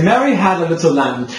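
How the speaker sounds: slightly British vowels in Mary and lamb; British-leaning open vowels; almost British. Shown as a demonstration. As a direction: speak it with a hint of British accent. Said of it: "almost like British".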